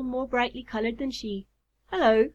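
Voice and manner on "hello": calling out. A narrator's reading. Moth hailing Miss Cecropia as he alights, calling out. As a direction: cry out a hearty greeting. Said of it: "cried one of them".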